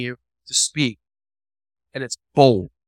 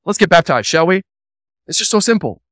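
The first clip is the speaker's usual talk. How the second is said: rushed salesy; 4 semitones higher, 5 dB louder, faster than usual. Retold or imitated. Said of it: "Receive Christ because it's so simple".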